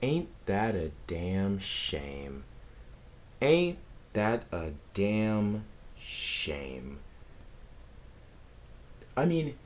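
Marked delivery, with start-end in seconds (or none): 0.0-2.4 mock lament. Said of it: "I'm messing with you guys". 3.4-7.0 slow, drawn-out fake mourning; drawn-out mock lament. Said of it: "I'm messing with you guys".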